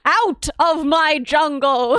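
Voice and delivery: slow, gruff card line; slow put-on card voice; Hearthstone card voice. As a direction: drawl it like a game card. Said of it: "Hearthstone quotes".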